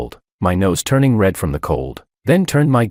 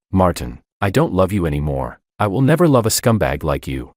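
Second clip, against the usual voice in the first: ordinary delivery, nothing marked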